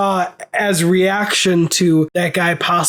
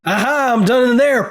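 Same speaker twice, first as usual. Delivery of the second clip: higher-pitched mock gunman outburst; imagined gunman; 6 semitones higher than usual. Acting out a gunman coming out of the theater, mock outburst. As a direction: burst out like an imagined shooter. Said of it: "someone with a gun".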